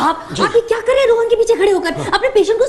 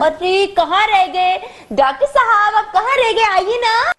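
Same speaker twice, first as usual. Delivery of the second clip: calling out. Acted. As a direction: summon the straggler into the room. Calls doctor in from outside. (पुकारते हुए)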